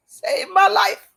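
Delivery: real overflowing thanks, shouted out; emotional shout. Real, not acted. Repeating in strong emotion.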